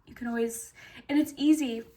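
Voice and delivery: hoarse voice giving out; rough, strained throat; losing voice. Real, not acted. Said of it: "I'm, like, losing my voice here".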